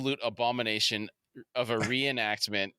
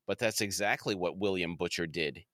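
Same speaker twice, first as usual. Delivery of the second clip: lightly voiced TV reporter, lower pitch; Chris Hansen; 5 semitones lower than usual. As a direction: drop lower for a mock news-host read. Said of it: "We switch to Chris Hansen, and he's saying".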